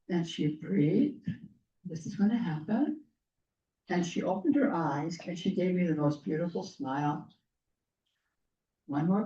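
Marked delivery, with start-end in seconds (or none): 1.8-3.0 fading, much softer, gentle reassurance. Retold or imitated. Narrator soothes the dying lady in her arms, softly reassuring. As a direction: ease her toward rest, barely above a breath.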